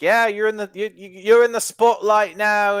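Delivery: high, loud yell in a bad New Zealand accent; botched New Zealand accent. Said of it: "I can't do his New Zealander accent".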